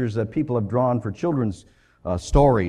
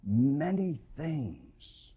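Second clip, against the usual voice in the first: gentle slow rebuke; 7 dB quieter, slower than usual. Acted. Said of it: "He said".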